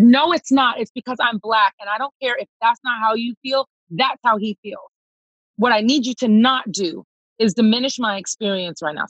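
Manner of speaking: firm, heated retort to the security head; heated reenactment. Retold or imitated. Retelling the confrontation to the venue security head, heated. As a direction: reenact the anger, pointed and firm. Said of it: "Sorry, girl, I'm all heated".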